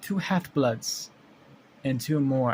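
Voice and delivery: slow, roughly faked French accent; hammy, imperfect French accent. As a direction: attempt a French-accented monster. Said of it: "almost like a French accent".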